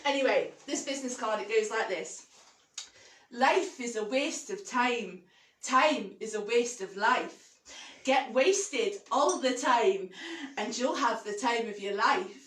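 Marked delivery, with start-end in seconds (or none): 3.3-12.4 slow Scottish poem recital; measured comic verse in a Scottish accent; amateur Scottish accent. Acted. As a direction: recite slowly in Scottish, savouring each line. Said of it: "Now my accent, again, bearing in mind".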